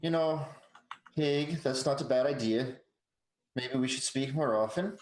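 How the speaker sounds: put-on light Swedish accent, lilting; a toned-down Swedish accent for the druid. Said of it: "I'm trying to do a less racist Swedish voice".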